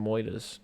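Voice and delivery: "moidas" with oy and dropped r; comic dialect pronunciation. Pretend. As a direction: stretch "moidas" in mock New Yorkese. Repeats the joking pronunciation.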